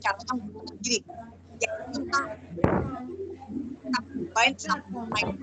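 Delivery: choppy, breaking-up audio; bad connection. Real, not acted. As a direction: voice cutting in and out. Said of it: "Putus-putus, Bu".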